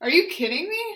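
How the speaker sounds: loud delivery with sincere rising intonation. Leading a repeat-after-me phrase drill, asking it like a question. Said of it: "just kind of ask it like a question".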